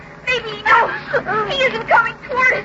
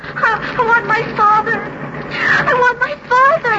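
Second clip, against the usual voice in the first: put-on crying child. Frightened child trapped in drone.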